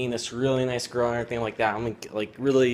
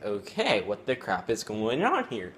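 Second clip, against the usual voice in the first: slow, drawn-out disbelief; mock bewilderment, stretching the words; baffled retold reaction; slower than usual. Boy retelling being ignored by his girlfriend, baffled.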